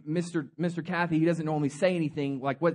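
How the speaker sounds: low, soft stunned murmur; whisper-ish shocked board members; quiet startled aside; hushed shock. Retold or imitated. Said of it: "they're like".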